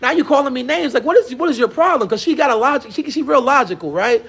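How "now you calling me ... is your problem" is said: lightly voiced daughter, higher pitch; retold daughter. Daughter calling out the girl who turned on her, mildly confrontational. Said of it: "my daughter goes again".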